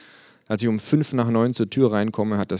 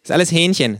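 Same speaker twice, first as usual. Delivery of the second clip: mouth full; 10 semitones higher, 7 dB louder than usual. Acted. Kangaroo character voice.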